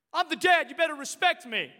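mildly acted bossy father; a touch of a domineering dad; authoritative dad. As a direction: demand respect as head of the house. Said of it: "Not your authoritative voice, not your shouting".

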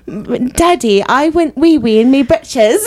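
put-on high, slow little British boy voice in a childish English accent; British kid accent. Comic bit about wanting a British kid, in a mock British child accent. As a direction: mimic a small English child confessing to Daddy. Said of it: "but a British kid would be cool".

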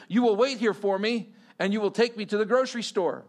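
imitating a commanding Russian accent; mock Russian woman's accent, issuing orders. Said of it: "thick, heavy Russian accent".

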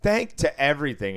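high, loud mock thank you; teasing chorus. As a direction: tease her with a high singsong thanks. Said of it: "the whole table started saying".

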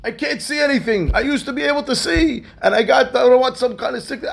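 high-pitched, wailing confession; anguished outburst. Retold or imitated. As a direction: cry out your misery at the man confronting you. Blind man's anguished outburst.

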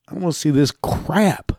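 a sudden unvoiced whisper, as if to himself. Real, not acted. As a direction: drop to a whisper mid-rant. Muttered aside during rant.

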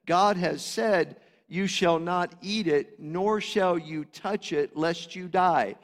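slow, weighted reading of Eve's words; deliberate quote. Shown as a demonstration. Preacher reading Eve's words slowly for emphasis. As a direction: lay each word down carefully. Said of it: "now listen to what she said".

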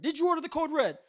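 high, loud demanding yell; courtroom shout. Retold or imitated. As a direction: hammer the witness with the question. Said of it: "and then he says".

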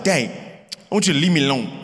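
lightly imitated toddler, words run together; sweet little toddler. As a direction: quote a little boy in a quick, low-key mumble. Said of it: "His sweet little voice is like".

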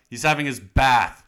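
usual speaking voice

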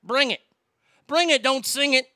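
cocky, rising to a loud taunt; tough guy challenge. Pretend. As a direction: dare him to come at you. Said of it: "let me just say".

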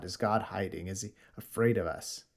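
preacher quietly repeating the mockers' question; quiet restatement. Real, not acted. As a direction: turn the taunt into a sober question. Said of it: "They're talking about God".

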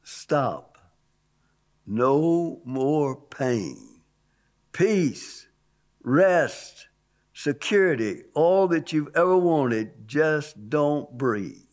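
slow, spaced-out words of a heavenly voice, lightly voiced; a hint of a calm, luring voice; beautiful soothing voice. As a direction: coax gently, one slow phrase at a time. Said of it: "the voice said to me".

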